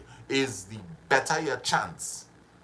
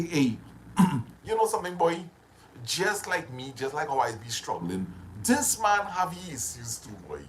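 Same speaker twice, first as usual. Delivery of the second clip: lighter, higher, easygoing with humor; good-humoured; 3 semitones higher than usual. Shown as a demonstration. Showing his listeners how a good frame of mind sounds, easygoing. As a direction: shrug it off kindly. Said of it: "You're in a good frame of mind".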